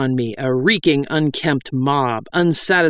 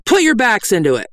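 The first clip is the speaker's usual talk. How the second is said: high, sharp rebuke; scolding cry; 8 semitones higher, 4 dB louder than usual. Acted. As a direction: cry out at lazy penitents. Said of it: "I cried".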